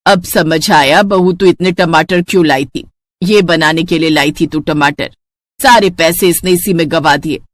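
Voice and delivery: put-on tired elderly woman complaining at the table; grumbling mother-in-law. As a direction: grumble like a fed-up saas.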